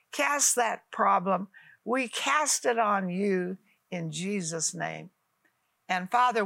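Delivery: earnest spoken prayer to God. Acted. Preacher praying aloud with her viewers, earnest prayer voice. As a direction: pray over the viewers, unhurried.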